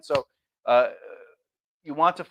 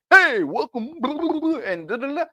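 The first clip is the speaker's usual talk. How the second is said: mock YouTuber welcome; 9 semitones higher, 3 dB louder than usual. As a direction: parody a generic intro. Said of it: "pop up and go".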